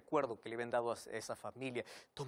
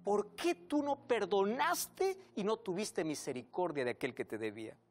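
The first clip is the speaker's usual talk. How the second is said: reproche airado. Acted. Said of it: "el señor enojado".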